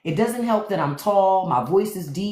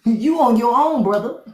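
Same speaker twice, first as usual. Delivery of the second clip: mock yell; 6 semitones higher, 5 dB louder than usual. Repeating refusal louder.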